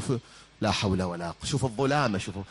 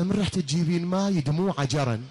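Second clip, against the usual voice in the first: put-on girl's voice; 6 semitones higher than usual. Daughter's answer, voiced high.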